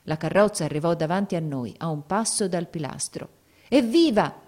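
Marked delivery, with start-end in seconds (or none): 3.7-4.4 loud, high hurrah of a crowd; brief acted crowd cheer; shouted cheer. A narrator's reading. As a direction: cheer as one voice among many. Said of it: "gridarono molte voci".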